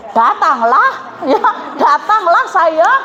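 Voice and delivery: light laugh through an eager yes; chuckling while agreeing to come; laughing eager reply. Retold or imitated. Listener laughingly accepting the stranger's invitation.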